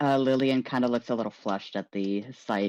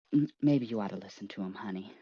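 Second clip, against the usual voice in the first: softer, hesitant and quick; timid suggestion; 5 semitones lower, 7 dB quieter, faster than usual. Acted. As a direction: nervously nudge her to listen.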